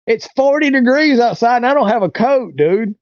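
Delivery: can you believe this guy; incredulous. Retold or imitated. Incredulous at being told to walk.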